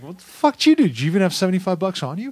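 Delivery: high, laughing mock outrage; laughing disbelief. Telling buddy's story to friends, laughing in disbelief. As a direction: ask it while cracking up.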